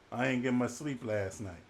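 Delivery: sleepy Jonah. Acted. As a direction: mumble an excuse. Jonah voiced answering.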